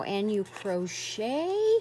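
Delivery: choked-up question then a gasp; moved to tears by a crocheted gift; touched, near tears. Real, not acted. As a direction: let emotion catch your voice.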